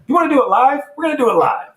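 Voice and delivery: yelling high and loud; pumped-up shout of bravado; mock hype shout. Boss hyping a live show.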